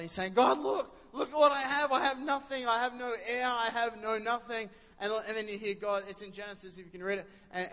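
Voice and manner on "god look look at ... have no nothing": Abraham whining to God about having no heir; Abraham whinging. Retold or imitated. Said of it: "Abraham's whinging at God".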